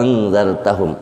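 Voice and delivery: first "a" of "angzartahum" held very long; one long unbroken vowel opening "angzartahum"; isba' six counts. Shown as a demonstration. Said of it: "isba', enam harkat".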